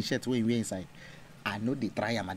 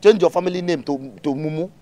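scolding; 3 semitones higher, 5 dB louder than usual. Acted. Parent scolding child.

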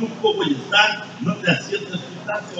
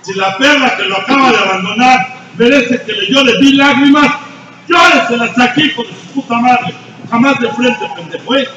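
loud and higher, yelling the insult at the end; furious shout; 7 semitones higher, 9 dB louder than usual. Real, not acted. Sponsor at the podium scolding a heartbroken member, furious shout. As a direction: yell it in his face with contempt.

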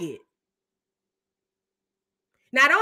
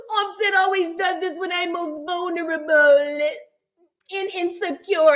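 mock crying; 3 semitones higher than usual. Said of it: "you hear her on us say".

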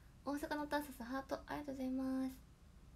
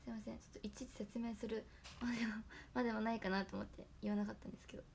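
hoarse voice; 2 semitones lower than usual. Real, not acted. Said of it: "声がガサガサです".

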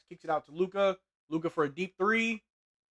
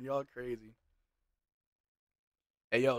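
ordinary talk

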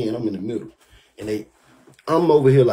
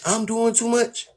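high, slow incredulous echo; a slow, high disbelieving echo of her words; 8 semitones higher, 5 dB quieter, slower than usual. Real, not acted. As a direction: repeat it slowly, high, not believing it. Mocking disbelief at her claim.

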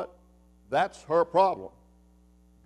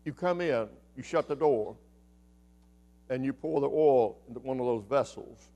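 softer, hushed prophet giving careful directions; quiet calm instruction; 5 semitones lower, 6 dB quieter than usual. Acted. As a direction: lay it out gently, much softer.

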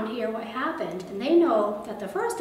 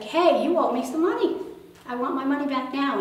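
higher and louder, a hammed-up angry demand; 4 semitones higher, 6 dB louder than usual. Official shouting at the man who owes him, angry. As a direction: snap at him for the money.

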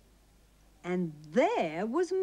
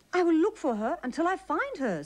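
Mister Bird voice; 7 semitones higher, faster than usual. A narrator's reading. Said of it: "said Mister Bird".

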